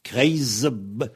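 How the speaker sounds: "Kreisb-" with voiced z running into b; "Kreisb-" cut off on the b; Z before B. Shown as a demonstration. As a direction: say "Kreisb-" as kreizb, buzzed. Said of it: "ça va se prononcer ze".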